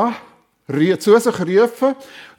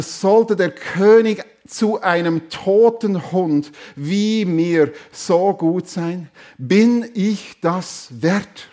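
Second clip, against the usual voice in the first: humbled exclamation; slower than usual. Acted. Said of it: "rief er aus".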